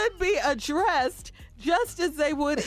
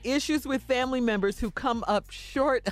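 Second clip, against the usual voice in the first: laughing; 4 semitones lower than usual. Real, not acted. Reading article, cracking up.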